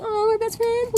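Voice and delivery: high, softened cooing replay; mock touched. Teller hearing she is the best friend, touched coo. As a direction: gush it high, as if about to tear up.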